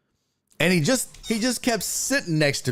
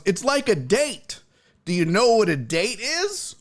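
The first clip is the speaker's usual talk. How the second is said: patient grandpa voice; 5 semitones higher than usual. Retold or imitated. Grandpa voiced explaining slowly.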